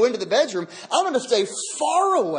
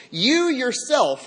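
"You yourself" higher and drawn out; emphatic YOU YOURSELF; 4 semitones higher, slower than usual. Shown as a demonstration. Preacher showing the original's emphasis, "You yourself" stressed emphatically. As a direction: lean slowly on both words of "You yourself". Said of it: "it's, it's overly emphatic".

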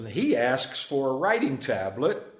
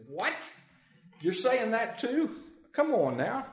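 mock astonishment; 9 semitones higher than usual. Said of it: "tipped over their cake or their drink and said".

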